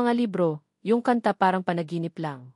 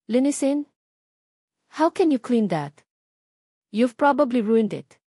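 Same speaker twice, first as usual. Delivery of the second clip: sharper and louder, scolding the maid; a mistress snapping at her clumsy maid, louder; voice rising; 3 semitones higher, 4 dB louder than usual. Retold or imitated. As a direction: raise it in indignant reproach. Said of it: "her voice rising".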